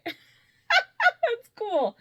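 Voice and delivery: giggling through the words; real amused laughter breaking in; laughing. Real, not acted. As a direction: say it through a laugh at a pun just understood. Amused at getting the wordplay.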